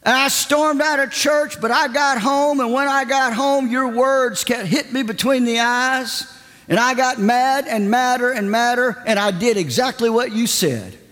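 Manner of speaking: high, eager retelling; woman's excited testimony. Retold or imitated. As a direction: tell it high and breathless with joy. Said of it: "She goes".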